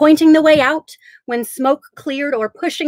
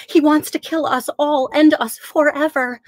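put-on desperate elderly voice; 5 semitones higher than usual. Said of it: "a desperate elderly voice".

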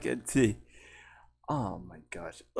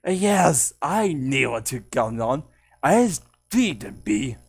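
lightly put-on louder character voice; Kitty Old; 6 dB louder than usual. Shown as a demonstration. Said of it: "Kitty Old sound like".

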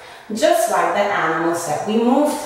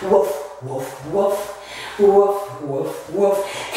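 low woofs; 3 semitones lower, slower than usual. Acted. Acts dog for kids.

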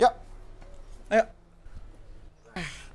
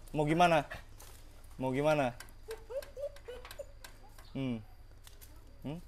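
soothing a dog; 6 semitones lower, 11 dB quieter than usual. Real, not acted. Talking gently to the dog.

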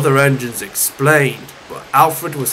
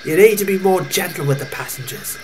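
gentle cousin; 3 semitones higher than usual. Acted. Molly counselling her angry cousin, gentle. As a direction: advise him gently in a higher voice.

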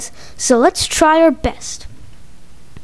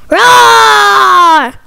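loud, long high roar; monster roar; 5 semitones higher, 9 dB louder than usual. Acted. Giant frog monster interrupts the game, huge roar. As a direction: roar at full volume like a giant beast.

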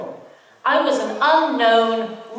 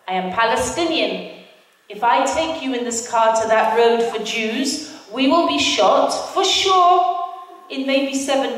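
put-on Palestinian driver accent. Driver explaining the Jews-only road, light Arab accent. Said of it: "I really have to do the accents".

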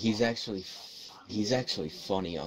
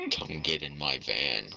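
put-on slow, low creepy old man lure; lightly voiced creepy stranger; 6 semitones lower than usual. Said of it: "do the creepy old man voice".

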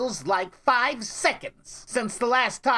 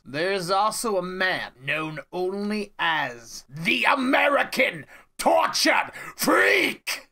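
dramatic announcer. Acted. Dramatic reveal of a freak.

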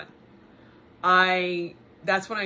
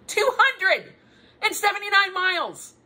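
much higher and louder, laughing in disbelief; amazed; 10 semitones higher, 4 dB louder than usual. Real, not acted. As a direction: repeat the number, stunned and laughing. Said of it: "Who does that?".

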